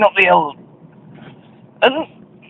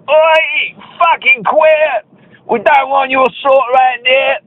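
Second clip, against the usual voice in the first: retold thug shout; 5 semitones higher, slower than usual.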